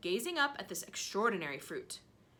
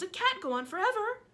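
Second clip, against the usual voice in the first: yell; 13 semitones higher, 6 dB louder than usual. Acted. Aunt yelling on.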